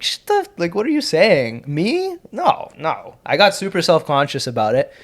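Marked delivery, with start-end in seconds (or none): 0.0-3.2 flustered squeaky reply. Retold or imitated. Retold flustered reply to official.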